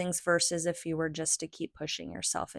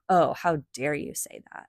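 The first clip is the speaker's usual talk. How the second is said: put-on lightly indignant child's retort; mock offended; 3 semitones lower, 3 dB louder than usual. Kid answering a parent's nap suggestion, mildly offended. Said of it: "kids even get offended".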